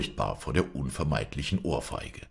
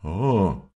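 loud yawning ah; 4 semitones higher, 6 dB louder than usual. Acted. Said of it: "rief Gottlieb".

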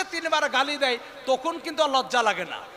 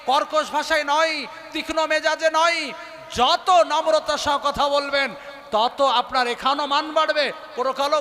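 impassioned preaching. Acted. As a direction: drive each point home to the congregation. Preaches at full force. (জোরালো ওয়াজের সুরে)

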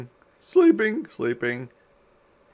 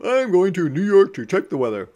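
excited; 6 semitones higher, 7 dB louder, faster than usual. Acted. Eager graduate announces.

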